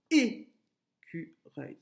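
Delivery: écureuil counted out slowly, é - cu - reuil; syllabes comptées. Shown as a demonstration. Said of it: "celle qui est sur le un". (« écureuil » lentement découpé en trois syllabes)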